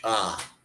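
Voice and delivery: ah as a pure open vowel. Shown as a demonstration. Explaining Spanish vowels to a friend, an open ah. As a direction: say ah for the letter A, no glide. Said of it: "A is always like a".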